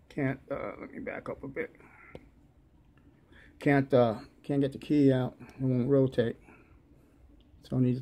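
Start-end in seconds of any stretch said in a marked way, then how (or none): 0.1-5.3 talking around a lozenge; mouth full. Real, not acted. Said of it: "I got a lozenge in my, uh, my mouth".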